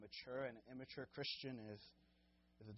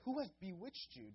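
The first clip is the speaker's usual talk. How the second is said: higher and louder, berating the crowd; angry scolding; 9 semitones higher, 7 dB louder than usual. Retold or imitated. Paul berating the foolish Galatians, loud and angry. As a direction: tear into them as idiots. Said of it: "He's calling them idiots".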